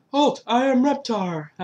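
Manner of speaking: loud, high, drawn-out monster catchphrase; slow, high imitated proclamation; Reptar. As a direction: announce it like a cartoon monster. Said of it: "And I'd be like".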